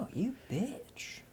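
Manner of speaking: high, slow, soft "Oh, you bitch"; mock outrage. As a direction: squeal it up high, drawn out. Own mock reaction to insult.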